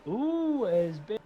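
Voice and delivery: sudden excited yelp. Real, not acted. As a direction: jump up in surprise. Sudden crash mid-race.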